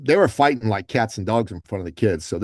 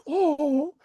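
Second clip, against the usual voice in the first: high, moved sigh of a crowd; a room full of people going aww; mock crowd sighing at a hug; touched crowd aww. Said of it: "everyone in the room's like".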